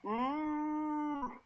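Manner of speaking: high, drawn-out "ooh"; mock yell. Game master voicing a Gimp with twisted arm, high mock yell. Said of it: "you hear him yell".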